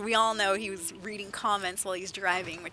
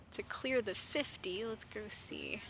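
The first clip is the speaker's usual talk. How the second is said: whispering; 10 dB quieter, slower than usual. Real, not acted. Quietly muttering while playing.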